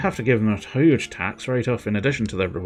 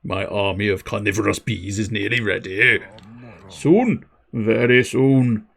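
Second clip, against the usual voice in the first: menacing beekeeper plotting revenge, slow and low; low, slow mad beekeeper; 3 semitones lower, slower than usual. Acted.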